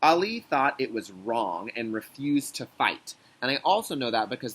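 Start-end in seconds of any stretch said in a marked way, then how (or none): 0.0-3.1 reading the quote. Shown as a demonstration. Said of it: "the author wrote".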